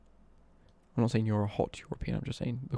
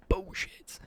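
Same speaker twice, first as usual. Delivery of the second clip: higher-pitched catchphrase, lightly imitated; Carl Pilkington; 8 semitones higher than usual. Streamer doubting a viewer's pack claim, light catchphrase impression. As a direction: draw it out as a quoted catchphrase. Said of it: "Carl Pilkington line".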